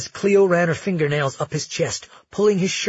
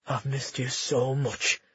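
breathed; 5 dB quieter, slower than usual. Acted. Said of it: "he breathed against her lips".

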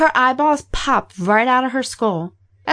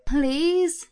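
softly voiced, higher-pitched plea; pleading; 6 semitones higher, 3 dB quieter than usual. A narrator's reading. Captive begging her tormentor, pleading. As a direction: beg in a small, raised voice. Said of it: "she pleaded".

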